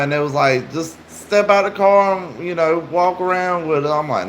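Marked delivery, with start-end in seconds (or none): 0.7-3.9 higher-pitched retold coaxing; casual mock persuasion, pitched up; imitated coaxing stranger. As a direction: lightly voice someone urging a kid along.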